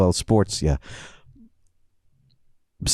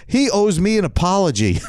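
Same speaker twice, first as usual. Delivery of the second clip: higher, mock-outraged demand; indignant kid; 5 semitones higher than usual. Seven-year-old demands justice from his coach, mock indignation. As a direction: demand it like a wronged child. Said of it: "Seven, I said this".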